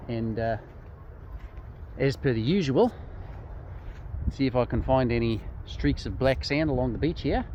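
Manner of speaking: a half-hearted Aussie twang, mostly his own voice; mock Australian accent. Vlogger posing as his Aussie twin, light Australian accent. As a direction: lightly play an Australian bloke. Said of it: "the accent's not quite dialed in yet".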